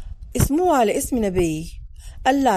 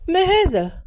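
surprised question; 7 semitones higher, 3 dB louder, slower than usual. Acted. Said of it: "وأنا أسألها".

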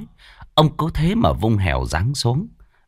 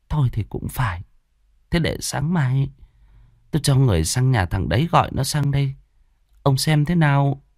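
put-on higher, gentle voice of an old wife; wife timidly proposing to her husband, higher; meek old wife; 4 semitones higher than usual. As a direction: coax the husband with a suggestion.

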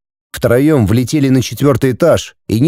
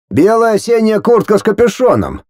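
pitched higher as the friend Sanya; a frowning friend answers, voice raised; lightly voiced friend; 9 semitones higher than usual. Frowning friend in the car answers the driver, pitched higher.

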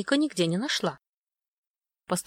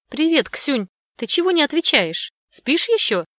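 cheerful mom voice, higher and louder; mom on video call; 8 semitones higher, 7 dB louder than usual. Acted. Mom calling her daughter on video, bright and loud. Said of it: "спросила мама".

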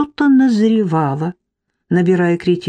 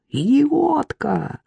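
high, slow furious yell; 7 semitones higher, much slower than usual. Acted. Marik dodging a thrown lamp, high slow yell. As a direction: bellow as you dodge. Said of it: "заорал тот".

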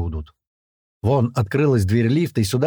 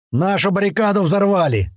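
high urgent warning; raised-voice alarm; shouting; 8 semitones higher than usual. A narrator's reading. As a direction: cry out the news, pitch well raised. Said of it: "кричит Адуван".

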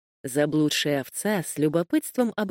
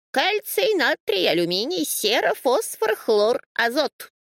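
high rattling list of elements; rattled off; 8 semitones higher than usual. A narrator's reading. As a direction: rattle off the list like a know-it-all. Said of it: "затарахтела овца". (протараторить высоким голосом)

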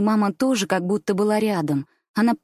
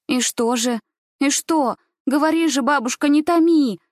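rising higher and louder, desperate; urgent exclamation; 6 semitones higher, 4 dB louder than usual. Acted. Gulya urging grandmother to finish, exclaiming higher and louder. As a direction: push each question higher until it breaks out. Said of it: "воскликнула она".

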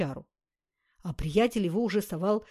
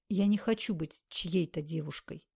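серьёзно. Acted. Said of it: "серьёзно сказала Наташа".

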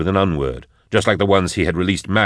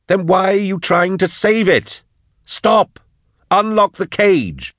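raised frantic voice; alarmed companion shouting, higher; 12 semitones higher than usual. Acted. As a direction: yell at him to stop. Drusha shouting at Eisenhorn.

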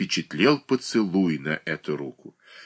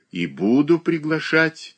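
slow, firm and resolute; 8 semitones higher than usual. A narrator's reading. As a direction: set your will. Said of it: "твёрдо произнесла". (твёрдо)

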